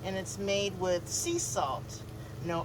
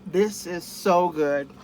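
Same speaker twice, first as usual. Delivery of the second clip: delighted; 6 dB louder than usual. Real, not acted. Tasting taco.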